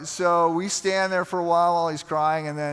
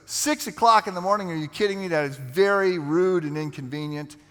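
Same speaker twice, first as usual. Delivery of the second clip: retold indignation, higher at the start; indignant complaint; 3 semitones higher, 3 dB louder than usual. Older man balking at a six o'clock men's program, indignant. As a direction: play an affronted objector, lightly.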